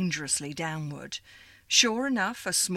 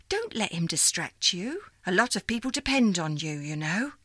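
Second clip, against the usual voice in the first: put-on old operator lady. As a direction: greet her like a fond old supervisor. Miss Liza continues.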